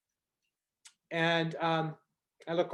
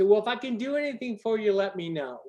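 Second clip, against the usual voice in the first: airy offer; 6 semitones higher, 5 dB louder than usual. Retold or imitated. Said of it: "And they say".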